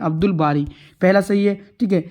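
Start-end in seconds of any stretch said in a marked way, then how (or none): 0.0-0.7 "अब्दुल बारी" read with its l sounded; laam pronounced. Shown as a demonstration. Teacher checking the example aloud, "अब्दुल बारी" with l pronounced. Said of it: "तलफ़ुज़ में पढ़ रहे हैं".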